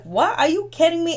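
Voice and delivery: high, stunned are you kidding me; incredulous and rising; disbelief. Retold or imitated. Viewer reacting in disbelief to the cast, rising. Retelling her own disbelief.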